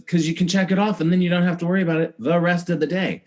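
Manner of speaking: a hint of a bossy mom laying down the law; voicing mom. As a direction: briskly lecture like a no-nonsense mother. Mom lecturing child.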